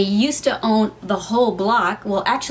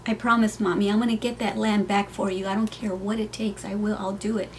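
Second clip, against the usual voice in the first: softer, choked-up real promise; holding back tears; 4 dB quieter than usual. Real, not acted. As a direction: fight tears as you promise your mom. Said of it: "Whew, I'm gonna start crying".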